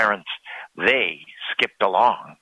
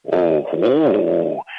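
a louder, excited "Oh, ho"; cried out; 3 semitones lower, 4 dB louder than usual. A narrator's reading. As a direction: exclaim it as a small discovery. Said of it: "cried the men".

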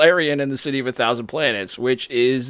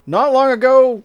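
excited; 13 semitones higher, 7 dB louder than usual. Real, not acted. Excited burst.

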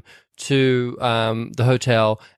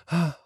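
tag; 3 semitones higher than usual. Retold or imitated. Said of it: "a shot of him going".

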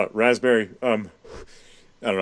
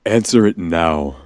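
mock Russian command; 5 semitones lower, slower than usual. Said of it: "in a Russian accent sort of sounded like".

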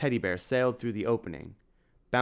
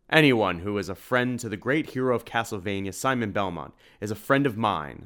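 a hint of a big jovial man, louder; lightly voiced shopkeeper; 5 dB louder than usual. Edward grins at Simon, a touch of hearty warmth. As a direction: beam at an old friend.

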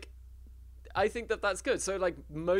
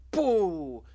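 mock spooky boo; 3 semitones higher, 6 dB louder than usual. Ghosts spring a surprise.

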